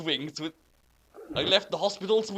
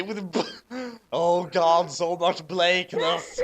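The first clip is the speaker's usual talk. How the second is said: laughing; 3 dB louder than usual. Real, not acted. Laughing at the text.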